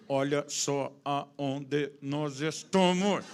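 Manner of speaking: very slow, loud, word by word; spelt out like Morse. Retold or imitated. Wife signalling husband by squeezing his arm, emphatic code. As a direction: punch each word separately, building to a shout. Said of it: "foi subindo o código Morse pelo braço".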